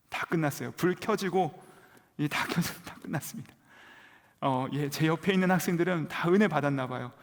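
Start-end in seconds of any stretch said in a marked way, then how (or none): 2.8-3.5 whispered, emptied out. Real, not acted. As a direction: breathe it out with no voice. 기도 시간이 끝난 허탈함. (힘없이 속삭이듯)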